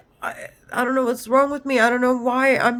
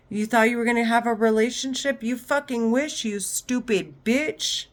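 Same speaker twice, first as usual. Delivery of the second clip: mocking men's voices; 3 semitones higher than usual. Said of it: "That's what the men are saying in my head".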